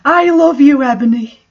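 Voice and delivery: sobbing. A narrator's reading. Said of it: "Satan sobbed".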